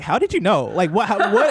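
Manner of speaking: high, laughing, baffled retort; half-laughing mock astonishment; mock surprise. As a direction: play it as an amused, confused comeback. Mock reaction to a slur on comms.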